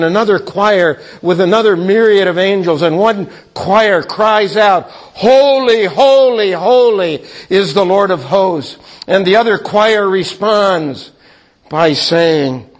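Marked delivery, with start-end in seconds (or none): 4.9-8.8 ringing cry. Acted. Angel choir crying out to God, ringing holy.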